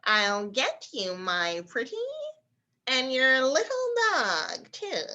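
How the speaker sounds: slow, lightly voiced witch threat; a hint of the Wicked Witch, drawn out. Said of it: "the Wicked Witch's famous statement".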